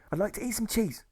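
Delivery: very high, perky character voice; little high-pitched comic patient; peppy patient. Acted. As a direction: chime in high and light.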